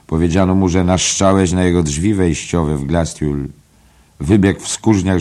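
gleeful gossip. Acted. Mulligan tells the gossip.

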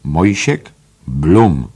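slow, loud mocking drawl of the name; mocking the visitor's name to Stephen, slow and loud; rattling on. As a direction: sneer the name out slowly. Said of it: "terkotał dalej".

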